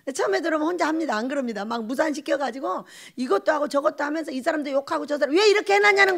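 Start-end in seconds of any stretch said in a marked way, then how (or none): 5.4-6.2 high, loud scolding cry; imitating an exasperated complaint, much higher and louder; mock angry yell. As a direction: bark it out like a fed-up newcomer. Imitating a newcomer scolding everyone.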